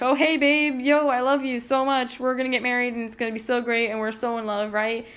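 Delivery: lightly hammed-up lovestruck guy; smitten bro voice. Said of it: "And Paris is like".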